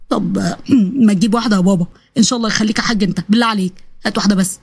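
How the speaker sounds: low, pleading voice; wheedling son. Acted. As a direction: beg for just one bite, voice low. Son begs father for food. (ابن بيتحايل بصوت واطي)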